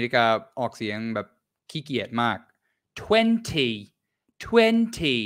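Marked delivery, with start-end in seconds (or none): 3.0-5.2 twenty said high, the t dropped to "twenny"; teacher models the American "twenny" with a flapped, dropped t; lazy American twenty. Shown as a demonstration. Teacher shows students the lazy American way, "twenny". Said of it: "That's how Americans say it".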